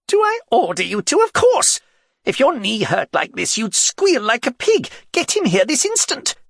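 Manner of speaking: high, loud indignant king; royal outburst. Acted. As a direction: bark it like a spoiled king. The king orders the healer fetched.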